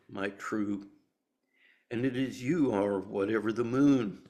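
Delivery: measured love-poem reading with long pauses. Acted. Reading E E Cummings' love poem for Valentine's Day, measured poem reading.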